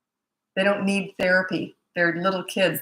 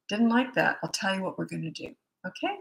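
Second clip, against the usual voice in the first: quiet discipline voice; 6 dB quieter than usual. Retold or imitated. Parent calmly tells misbehaving kids the consequence, quiet and firm. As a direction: drop the volume and let the calm do the work. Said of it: "I got real quiet".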